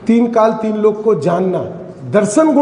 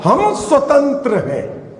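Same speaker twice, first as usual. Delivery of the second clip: quoted declaration; 4 semitones higher, slower than usual. Retold or imitated. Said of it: "उन्होंने क्या कहा?".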